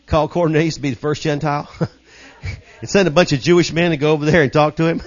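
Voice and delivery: quick telling broken by chuckles; amused. Real, not acted. Preacher relishing God's choice of Cornelius, amused and chuckling. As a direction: laugh at the irony as you tell it.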